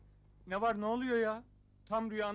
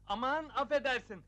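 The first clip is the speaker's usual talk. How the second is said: higher-pitched placating excuse; flustered apology; 3 semitones higher than usual. Acted. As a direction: backtrack nervously after a slip of the tongue. Lodger apologises after insulting landlady.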